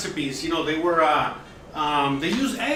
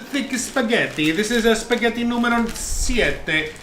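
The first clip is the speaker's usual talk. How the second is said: mock Italian accent; 5 semitones higher than usual. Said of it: "speaking in such Italian".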